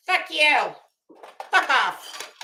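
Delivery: sighing mock curse; lightly put-on cursing; P G imitation. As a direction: parody host's curt brush-off. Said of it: "doing a P G imitation".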